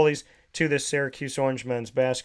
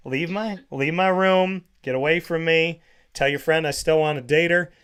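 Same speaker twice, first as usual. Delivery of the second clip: mock exasperated; 2 semitones higher, 3 dB louder than usual. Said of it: "I was like".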